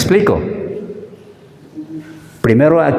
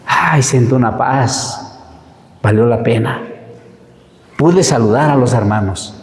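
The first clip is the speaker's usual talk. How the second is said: grateful prayer; 3 semitones lower than usual. Retold or imitated. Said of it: "agradeciendo a Dios".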